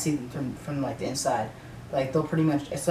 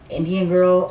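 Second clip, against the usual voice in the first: louder, blunt call-out; said it loudly; 4 semitones higher, 5 dB louder, slower than usual. Retold or imitated. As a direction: announce it loudly across the counter. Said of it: "I even said it like this too".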